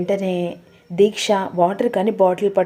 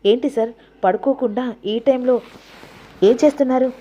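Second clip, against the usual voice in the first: angry demand; 4 semitones higher than usual. Acted. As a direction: confront him, angry. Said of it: "కోపంగా వస్తుంది". (కోపంగా నిలదీయడం)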